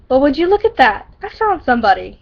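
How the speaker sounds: mock-triumphant bully taunt; lightly voiced gloating bully; smirking. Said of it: "he says, smirking".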